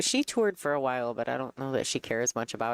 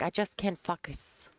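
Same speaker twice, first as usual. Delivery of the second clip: imitated French Canadian accent, raised pitch; 5 semitones higher than usual. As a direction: mimic a French Canadian saying "focus" like a swear word. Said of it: "so her accent, you know, gives her problems".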